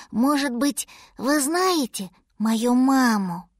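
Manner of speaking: lightly voiced little one pleading politely; small mammoth's drawn-out question; hopeful baby mammoth.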